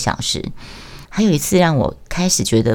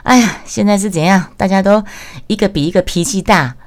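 irritated boss; 5 semitones higher than usual. Retold or imitated. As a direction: grumble back angrily at everyone. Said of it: "他也是来火气".

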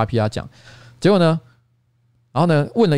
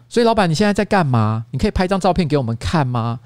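cute staffer voice; 3 semitones higher than usual. Retold or imitated. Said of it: "有点可爱的语气".

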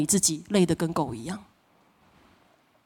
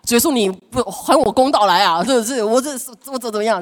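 mock aggrieved prayer; 3 semitones higher, 3 dB louder than usual. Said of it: "我用力祷告，我就说".

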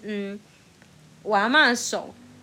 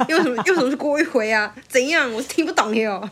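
mock indignant; 3 semitones higher than usual. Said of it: "我内心想说".

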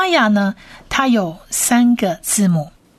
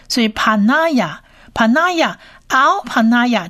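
slow drill; 3 semitones higher, much slower than usual. Shown as a demonstration.

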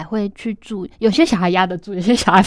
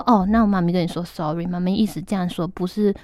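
gentle apology to daughter. Retold or imitated. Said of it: "我就说".

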